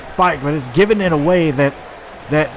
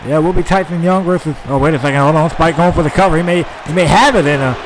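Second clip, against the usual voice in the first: wrestling commentator. Acted. Live match play-by-play.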